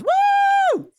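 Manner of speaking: high excited whoop to greet a chatter. Real, not acted. Streamer whoops to welcome a first-time chatter, excited. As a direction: let out a big celebratory woo.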